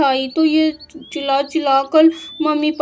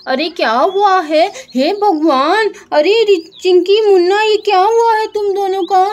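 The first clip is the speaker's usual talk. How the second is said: high, louder alarmed cries; alarmed mother; 5 semitones higher, 4 dB louder than usual. Acted. Mother finding her fallen children, alarmed and raised. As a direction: rush to the hurt children in shock.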